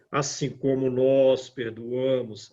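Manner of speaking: a cooler, half-hearted promise; reluctant. Shown as a demonstration. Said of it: "é o sentimento oposto".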